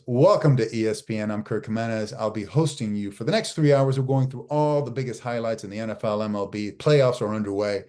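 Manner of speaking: sports anchor opening a show, grounded; host the broadcast from the diaphragm; steady, confident on-air read; authoritative anchor voice. Shown as a demonstration. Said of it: "This is my anchor voice".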